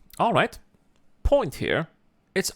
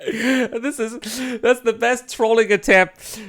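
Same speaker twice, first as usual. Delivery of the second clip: crying with laughter; 4 semitones higher, slower than usual. Real, not acted.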